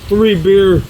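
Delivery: talking with mouth full; words round a mouthful of food. Real, not acted. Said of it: "Sorry, I'm talking with my mouth full".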